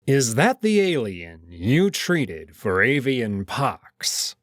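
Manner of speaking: cold and slow interrogation; slow stern question. Acted. Kato coldly interrogating Felix about the alien. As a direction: press the doctor, every word weighed.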